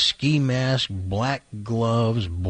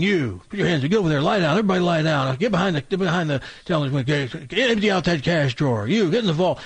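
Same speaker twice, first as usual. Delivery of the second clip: higher-pitched, hurried string of orders; bossy robber; 4 semitones higher, faster than usual. Acted. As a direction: order everyone around like a frantic bank robber. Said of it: "he's bossing everybody around".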